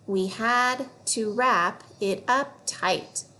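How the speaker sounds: put-on reading a passage slowly and clearly for kids; slow read-along. Shown as a demonstration. Teacher reading the fluency passage aloud for kids. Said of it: "we're gonna read it together".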